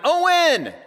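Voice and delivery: loud, high yell; frantic father yelling through a store; yelling his name. Retold or imitated. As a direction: shout for the missing kid. Yelling for lost son.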